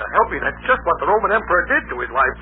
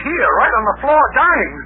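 high, urgent and breathless; panicked report of a body on the floor; frantic; 7 semitones higher, 3 dB louder than usual. Acted. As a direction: blurt it out in a panic. Frantic man reporting a death.

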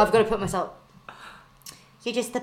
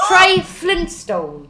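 quoting a movie line; 6 semitones higher, 4 dB louder, much slower than usual. Retold or imitated. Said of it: "I really thought".

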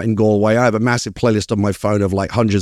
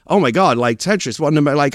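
mildly starstruck stammer; retold awestruck babble, stumbling over words; flummoxed fanboy; 4 semitones higher than usual. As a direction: play at being lost for words. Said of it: "I was, like, completely flummoxed".

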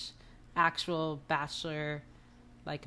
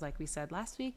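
usual speaking voice

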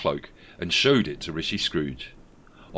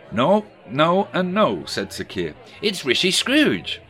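raised, louder politician voice; Keir Starmer impression; 8 semitones higher, 5 dB louder, slower than usual. A narrator's reading. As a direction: play Keir telling a story. Sir Keir voiced in story.

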